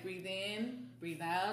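slow, soft breathe in, breathe out; slow calming breath cue. Shown as a demonstration. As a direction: guide the breathing, slowly. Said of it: "I remind myself of that".

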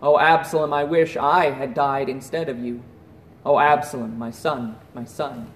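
low, subdued grief, voiced without real sobbing; weeping lament. King David mourns his dead son Absalom, restrained low lament. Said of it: "he wept and said".

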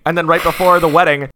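ordinary talk

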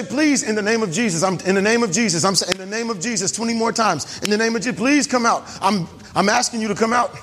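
repetitive, faltering mock plea; mock begging. Preacher mimics what Jesus didn't say to demons, mock begging. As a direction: plead weakly, stumbling over the repeated formula. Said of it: "He didn't beg them".

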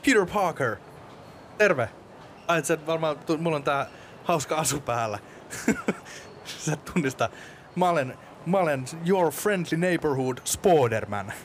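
high-pitched comic hero introduction; eager Spoderman. Acted. Plays Spoderman arriving at the interview.

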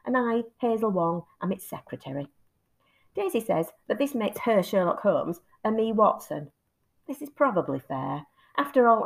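steady storybook reading voice, unhurried; story narration. A narrator's reading. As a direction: read it like a chapter to students. Reads the book extract aloud.

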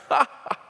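light mock chuckle, ha ha ha; imitated laugh. Preacher mimics the lamb and Jesus sharing a laugh, mock chuckle. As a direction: laugh along like the painted lamb. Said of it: "like they're in the middle of a laugh".

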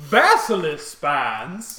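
slow, loud disbelieving question; incredulous. Acted. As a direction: draw it out in disbelief. Shopkeeper NPC incredulous.

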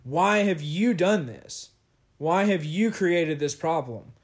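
retelling Moses' exasperated question to God; frustrated Moses. Retold or imitated. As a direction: press each why like a fed-up complaint. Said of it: "he sounds really frustrated, and he's just like".

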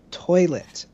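first, mild attempt to be understood; student repeating. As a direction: imitate a pupil repeating the word. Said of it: "kids yelling the word toilet".

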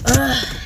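real fed-up "ugh"; exasperated groan. Real, not acted. Driver fed up with working, exasperated groan.

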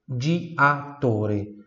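diatore split slowly as "dji-a-tore"; syllable breakdown. Shown as a demonstration. Teacher breaks down the word for students, diatore slowly split. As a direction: pull diatore apart, sounding "dji" then "a". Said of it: "com dois Gs".

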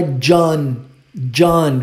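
John with an open A-like vowel, like Jahn; John pronounced with an English A sound. Shown as a demonstration. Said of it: "o O tem som de A".

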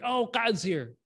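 mock excited buzz; excited announcement. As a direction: play people spotting the life of the party. Crowd noticing the joker arrive.

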